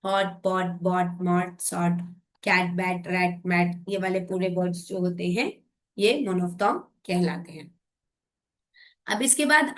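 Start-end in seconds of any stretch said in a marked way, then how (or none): 0.1-3.8 lower, each CVC word spaced out; calm teacher demo of rhyming words. Shown as a demonstration. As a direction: read the rhyme list like a teacher. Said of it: "CVC rhyming words".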